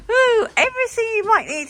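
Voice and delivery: very high, loud, quick delighted ooh; excited marvelling. Real, not acted. Customer marvelling at a well-stocked shop, excited gushing. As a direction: gush in a high, excited rush.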